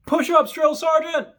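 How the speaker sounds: high, loud, slow sound-off; recruit sound-off. Retold or imitated. Recruit answers drill sergeant, high loud sound-off. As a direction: yell it back like a recruit.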